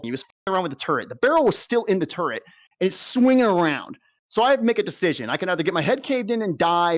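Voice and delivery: worked-up, sarcastic retelling; ranting. Real, not acted. Soldier recounting a near miss with the gunner, sarcastic rant. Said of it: "things I just ranted about".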